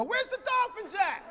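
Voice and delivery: high, slow, puzzled; mock confused question. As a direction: act baffled by the glass. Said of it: "I go".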